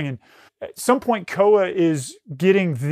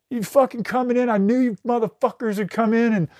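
retold frantic yelling; 5 semitones higher than usual. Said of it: "is screaming, and he's crying".

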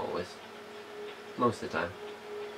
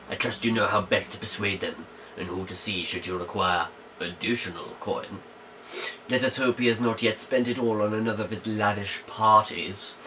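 dramatic reading. Shown as a demonstration. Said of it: "read it dramatically".

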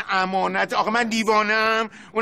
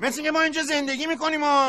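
raised, higher voice, snapping at the carpet man; heated; 5 semitones higher, faster than usual. Acted. Older brother flares up at the shopkeeper, raised angry voice. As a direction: pitch climbing in irritation. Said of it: "داداش، آروم".

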